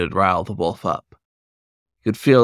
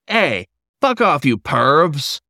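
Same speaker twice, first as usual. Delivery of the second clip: higher, yelled warning; angry bark; 6 semitones higher, slower than usual. Acted. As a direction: bark it at the peeping teens. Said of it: "the wolf barked".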